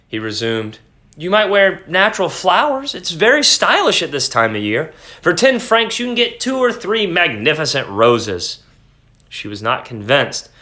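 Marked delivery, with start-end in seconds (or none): 1.2-8.6 husband voice. Acted. Husband speaks, higher voice.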